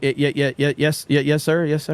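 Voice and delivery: nervous, stammered repeated agreement; mock-anxious babbled obedience; scared to death. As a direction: imitate a frightened kid agreeing over and over. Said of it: "I'm scared to death".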